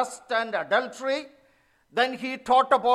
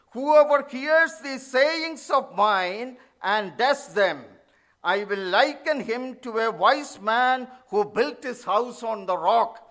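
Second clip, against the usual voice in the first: scripture reading. Acted. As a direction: read the verse with weight. Reads the closing verse.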